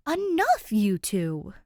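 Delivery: big sister cutting in loudly; firm interjection. Acted. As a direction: stop the bickering at once. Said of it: "Jazz interjects".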